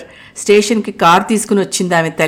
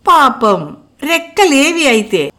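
mild playful teasing, higher; 6 semitones higher, slower than usual. A narrator's reading. Anubha teases Mukul about his wings, lightly playful. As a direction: poke fun at him gently. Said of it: "కొంటెగా".

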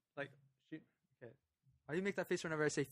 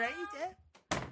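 slow, much higher, incredulous jab; mock angry driver; 12 semitones higher, much slower than usual. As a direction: drag it out slowly as a scornful driver. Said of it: "She said".

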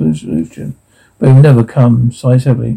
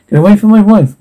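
desperate shout; 6 semitones higher, 3 dB louder than usual. Acted. Husband defends wife from captors.

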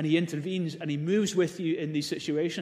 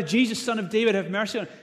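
crying out louder; 4 semitones higher than usual. Retold or imitated. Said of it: "he cried out even louder".

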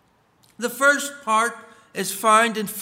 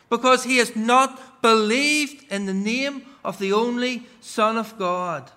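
measured, solemn Bible reading; scripture reading. Acted. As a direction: read the verse like from the pulpit. Reads scripture aloud.

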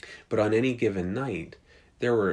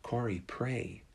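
calming. Retold or imitated. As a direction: settle her down gently. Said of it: "Betsy calms her down".

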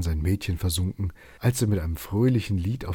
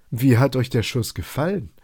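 higher, crowing over the shot; triumphant; 5 semitones higher, 3 dB louder than usual. Acted. Robin gloats to the foresters after his shot, triumphant. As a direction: gloat a little after the hit. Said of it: "triumphierte Robin".

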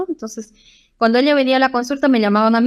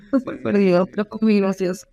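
laughing. Real, not acted. Laughing at the memory.

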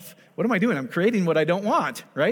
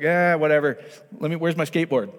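put-on bored teen; 3 dB louder than usual. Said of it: "where before he's like".

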